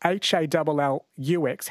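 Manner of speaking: each letter given separately; spelled out. Shown as a demonstration.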